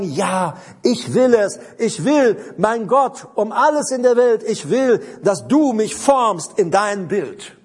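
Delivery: emphatic vow in short bursts; devoted surrender. Acted. Believer giving himself over to God, devoted and emphatic. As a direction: declare it as a wholehearted yes. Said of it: "mit Hingabe zu tun, mit sich ausliefern und sagen".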